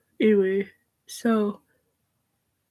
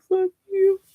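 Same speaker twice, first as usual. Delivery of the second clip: sharp higher outburst; angry; 10 semitones higher than usual. Real, not acted. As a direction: spit it out.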